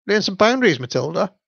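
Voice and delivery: a hint of a stern parent; mock stern. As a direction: tell her off, half in jest. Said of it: "I would just say".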